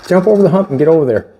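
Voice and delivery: talking around a pen held in the mouth; pen in teeth. Real, not acted. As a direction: say it with a pen clamped between the teeth. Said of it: "I got a pen in my mouth and I can't talk".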